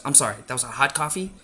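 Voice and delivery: fast, snippy question with a touch of sass; attitude. Retold or imitated. Imitating the worker interrupting her with mild attitude. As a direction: toss it off impatiently with mild attitude. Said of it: "Like, in an attitude way".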